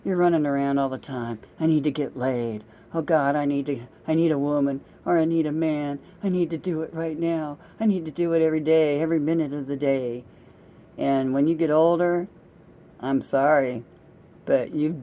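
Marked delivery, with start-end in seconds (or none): 1.6-10.2 louder, pushing, mock desperate need; hammed-up craving, rushing; mock urgent, rushing at the end; urgent young person. Voicing a lust-driven young person.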